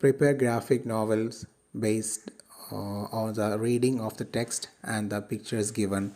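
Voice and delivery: reads each English phrase out slowly and evenly; slow textbook reading. Acted. Teacher reads the outcome to students, slowly and clearly. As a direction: read it out for the class word by word.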